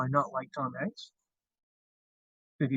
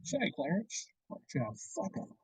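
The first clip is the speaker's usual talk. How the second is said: Jimmy Stewart impression; 4 semitones higher, 5 dB quieter than usual. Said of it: "I wanna hear Jimmy Stewart".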